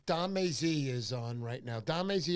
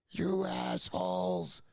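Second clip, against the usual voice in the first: drawn-out mock yell, slow and a bit louder; retold angry yell; 3 semitones higher, 3 dB louder, much slower than usual. Charlie yelling at friends spooking fish, slow angry call. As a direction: call out the insults like across a beach. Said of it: "I'm hearing".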